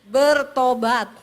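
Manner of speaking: slow, loud call to repent; stern command. Acted. Preacher booming at the congregation, slow stern call.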